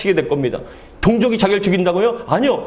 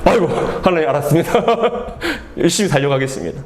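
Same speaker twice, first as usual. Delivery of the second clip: laughing compliance; faster than usual. Acted. Acts chastened prophet's answer, laughing.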